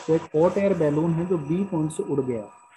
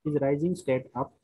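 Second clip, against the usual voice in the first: very slow, word by word, repeating phrases; slow dictation; much slower than usual. Shown as a demonstration. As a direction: dictate slowly so students can write. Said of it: "question लिखिए पहले यहाँ पे".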